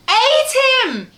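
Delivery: sudden high, loud exclamation; spring it on them after the hush; dramatic pounce. A narrator's reading. Narrator jumping out at the listening children with a loud high exclamation.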